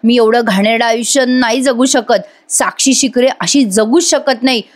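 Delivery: imitating a terrified prisoner losing it; mock panic. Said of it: "स्वतःलाच असं घाबरत असते".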